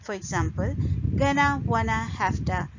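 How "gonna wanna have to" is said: "gonna, wanna, have to" run together as weak forms; reduced forms. Shown as a demonstration. Teacher listing reductions for learners, "gonna, wanna, have to" reduced. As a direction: squash "have to" into "hafta". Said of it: "these are reductions".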